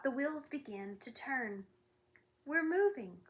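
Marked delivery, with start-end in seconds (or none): 2.5-3.3 rising, louder joyful shouting; happy shout. Acted. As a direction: cheer it out with delight. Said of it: "he shouted happily".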